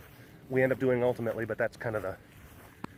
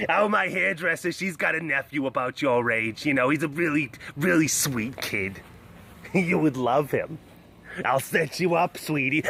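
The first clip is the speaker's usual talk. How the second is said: matchmaking aunt. Pretend. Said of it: "a middle-aged aunt who smokes a lot".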